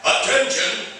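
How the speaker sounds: high, urgent radio call to all districts; dispatch alarm call. Acted. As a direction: bark the alarm over the radio, pitched high.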